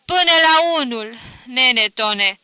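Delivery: loud wailing complaint to the dead; crying out. A narrator's reading. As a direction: lament loudly, half grief half grievance. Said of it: "strigă".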